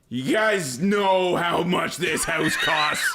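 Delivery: slow, drawn-out exasperated demand; hammed-up irritated question; mock angry. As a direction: imitate a man angry at himself, stretching every word. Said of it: "he's getting angry at himself".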